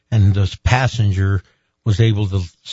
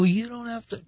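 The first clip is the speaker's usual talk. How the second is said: protesting; 12 semitones higher, 9 dB quieter than usual. Retold or imitated. Brushing off doctor, high soft.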